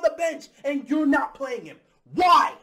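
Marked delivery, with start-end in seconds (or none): 2.1-2.5 exasperated shout. Real, not acted. Ranting at coach's choices.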